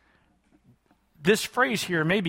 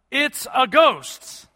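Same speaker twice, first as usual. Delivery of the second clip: slow, raised cry of "It's a ghost"; mock cry of fear; 5 semitones higher, 3 dB louder, much slower than usual. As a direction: draw out the ghost cry like scared fishermen. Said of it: "they cried out".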